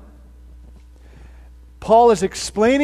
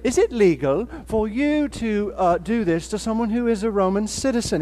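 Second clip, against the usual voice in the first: matter of fact. Retold or imitated. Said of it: "that's a matter of fact kind of conversation".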